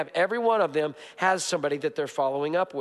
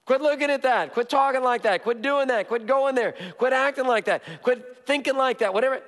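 forceful commands; 5 semitones higher than usual. Acted. Pastor listing sins to quit, forceful and raised. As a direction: drive each quit home.

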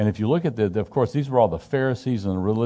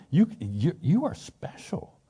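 mock motivational speaker, pitch rising higher on "you"; Tony Robbins hype; 7 semitones higher, slower than usual. Preacher imitating Tony Robbins hyping up his followers, mock hype. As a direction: pump up the crowd like a self-help guru. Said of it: "he's the Tony Robbins of the day".

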